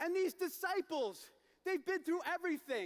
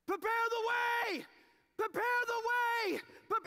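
a messenger bellowing down the hill; crying out; 9 semitones higher, 4 dB louder than usual. Acted. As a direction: call it out loud to the whole town. Herald shouting into town.

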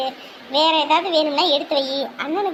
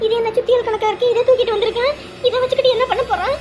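alarmed; 6 semitones higher than usual. Acted. Panics seeing a hammer.

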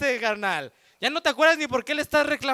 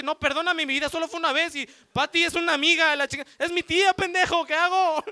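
pleading; 5 semitones higher than usual. Acted. Boyfriend begging forgiveness.

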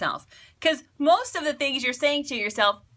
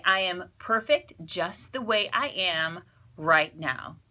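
calm mantra; 4 semitones lower, slower than usual. Shown as a demonstration. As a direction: say it gently, like a promise to yourself. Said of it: "You can say".

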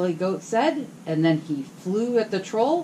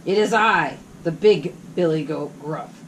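big goat voice; 4 dB louder than usual. Acted. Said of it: "who had an ugly hoarse voice".

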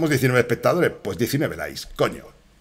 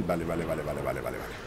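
repeated vale, getting softer; fading okays; 6 semitones lower, 10 dB quieter, faster than usual. Real, not acted. Streamer calms himself in-game, vale fading away. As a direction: mutter it down to nothing.

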